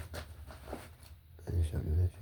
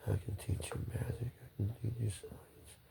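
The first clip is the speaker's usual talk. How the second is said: softer, breathy tempting whisper; secretive whisper; 2 semitones higher, 10 dB quieter than usual. Pretend. The Joker tempting a listener with magic, whispered. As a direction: lure them in with a hushed offer.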